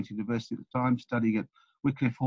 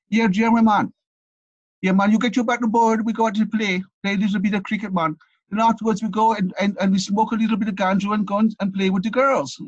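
put-on loud, raised Jamaican accent; 8 semitones higher, 4 dB louder than usual. Jamaican boys inviting him out after cricket, imitated Jamaican accent. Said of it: "sorry about the accent".

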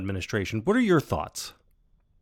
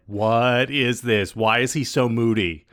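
loud, drawn-out mock exasperation; put-on sibling bafflement, pushed louder; eye-rolling exasperation; 5 dB louder, slower than usual. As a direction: imitate a fed-up kid, slowing down on the question. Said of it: "started rolling her eyes constantly. And she's like".

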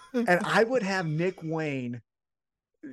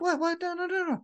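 flustered denial; 12 semitones higher, faster than usual. Retold or imitated.

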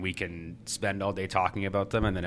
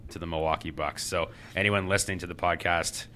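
blocked-nose voice; congested, nasal delivery; 4 dB louder than usual. Real, not acted. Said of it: "my nasally voice this week".

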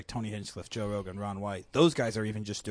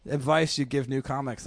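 raised, higher audience call-out; mild mock yell; imitated yelled question; 4 semitones higher, 5 dB louder than usual. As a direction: call it out like someone in the crowd. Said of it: "one of them yelled out".

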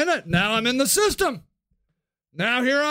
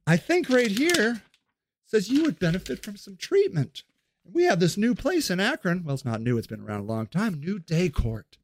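patronizing official; 4 semitones lower than usual. Acted. Soft condescending official voice.

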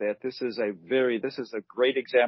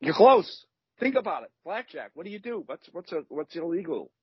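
high, coaxing hint-giving; playful teasing hints; 7 semitones higher than usual. Real, not acted. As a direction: egg the listener on, playfully.

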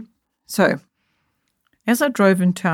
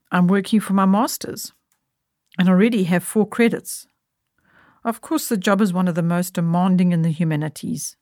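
coolly. Acted. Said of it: "Coolly, without any trace of fluster in my voice".

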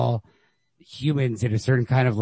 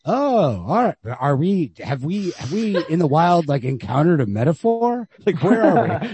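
higher, mock-baffled musing to himself; bewildered surprise; 5 semitones higher than usual. Reader recalling the story turning surreal, mock bewildered. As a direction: replay his own puzzled double take. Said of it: "where I was just like".

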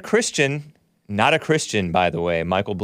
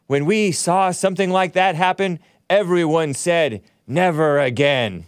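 put-on big old words; 5 semitones higher than usual. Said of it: "in big old words".

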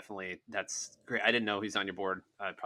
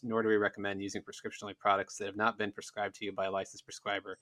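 brisk rattled-off legal read; fast legal disclaimer. Shown as a demonstration. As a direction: read the small print quickly, by rote. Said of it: "that is the disclaimer for the podcast".

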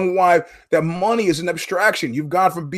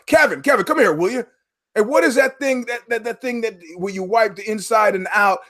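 higher, urgent call across the room; 4 semitones higher than usual. Retold or imitated. Customer calling salesman Kevin over, urgent and raised. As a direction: flag the salesman down, frantic.

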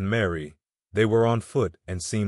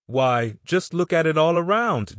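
much higher and louder, bursting out; excited exclamation; 8 semitones higher, 4 dB louder than usual. Acted. Woman urging her friend to see providence, excited. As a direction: burst out in amazement.

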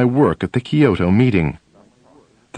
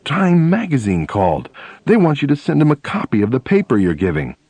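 excited; 4 semitones higher than usual. Retold or imitated. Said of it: "in an excited voice".

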